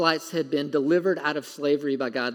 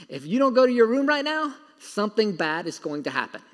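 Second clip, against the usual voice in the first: parent threat; 4 semitones higher than usual. Retold or imitated. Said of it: "if you've been a parent".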